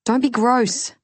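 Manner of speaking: mock-disgusted outburst; embarrassed scold. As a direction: push him off with a squeal of disgust. Embarrassed woman scolds young lover.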